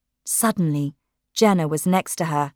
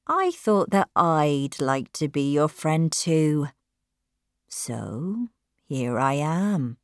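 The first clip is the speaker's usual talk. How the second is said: put-on smooth young man; 2 semitones lower, slower than usual. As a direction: lure her in calmly. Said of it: "he said gently".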